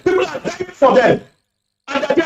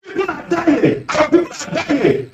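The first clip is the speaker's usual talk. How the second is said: emotional; 4 dB quieter, slower than usual. Real, not acted. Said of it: "I'm sorry for being so emotional".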